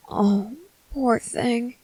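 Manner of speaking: slow, hushed whisper. Acted. Father whispering slowly to his crying baby, hushed. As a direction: breathe it out slowly to calm the baby.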